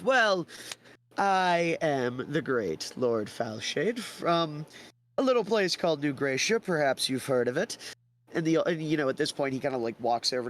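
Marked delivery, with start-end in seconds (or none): 0.0-7.8 very slow pompous lord; grand boast. Acted. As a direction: announce yourself like royalty. Theodore boasts his title.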